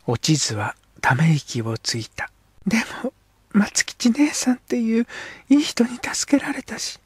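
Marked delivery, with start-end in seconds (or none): 2.7-7.0 put-on girl's whisper. Girl character speaks.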